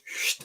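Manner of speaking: short, soft hushing swish; imitated paper noise. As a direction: make a quick voiceless swish for the paper. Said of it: "gets a piece of paper and goes".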